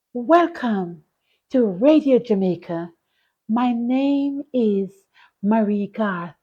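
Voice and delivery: lightly imitated silky, soft radio host; a hint of a smooth radio announcer, slow on the name. Imitating the radio host's silky, soft welcome. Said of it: "The voice was so silky and soft".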